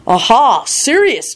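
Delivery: high, pleased realisation; grinning. A narrator's reading. George realising who is meant, grinning. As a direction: exclaim it high with a grin. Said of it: "George grinned".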